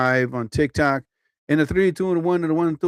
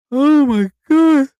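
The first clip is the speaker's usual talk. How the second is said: amazed oh my God; 10 semitones higher, 7 dB louder, slower than usual. Real, not acted. Reacting to something funny live.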